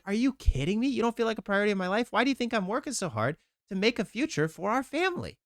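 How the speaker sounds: reliving his irritated first reaction; retold anger. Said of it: "the very first thing that I feel is pissed".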